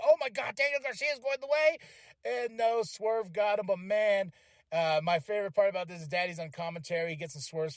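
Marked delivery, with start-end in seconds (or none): 0.0-1.8 a touch higher, mock-hyped; excited disbelief. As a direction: lightly raise it as if the underdog is winning. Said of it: "I was like".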